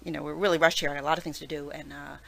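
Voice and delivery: fast, rushed Manhattan talk; fast Manhattan accent. Shown as a demonstration. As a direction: rattle it off like a stressed New Yorker. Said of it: "Manhattan's really quick".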